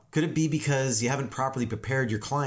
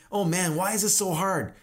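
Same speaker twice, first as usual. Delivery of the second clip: high-pitched mock exasperation; put-on fed-up whine; whining; 6 semitones higher than usual. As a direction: complain like a worn-out chopper. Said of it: "whining and complaining all the time".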